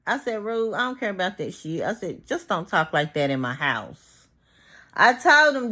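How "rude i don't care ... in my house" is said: low, matter-of-fact telling-off, retold; a calm retold request to drop it; restrained first warning. Host first tells guest not to talk like that, restrained warning. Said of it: "when he first said it, I was like".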